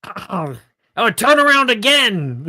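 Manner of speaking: high, loud brassy flirt; brassy gum smacking floozy. Acted. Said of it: "the skull says".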